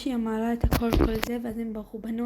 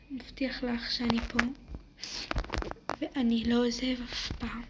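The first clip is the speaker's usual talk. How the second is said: reassuring whisper. Acted. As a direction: whisper to calm her down. Comforting a panicking girl.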